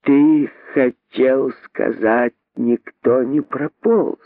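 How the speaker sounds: slow, needling correction; venomous reply. Acted. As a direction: stretch each word out with sly venom. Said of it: "ядовито ответила она".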